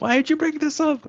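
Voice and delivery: high, soft squeaky manager imitation; mock annoyed manager. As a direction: imitate the boss complaining in falsetto. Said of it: "I know my manager's gonna kill me".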